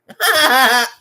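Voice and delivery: loud, high burst of laughter. Real, not acted. Vlogger laughs at his own business joke, loud laugh.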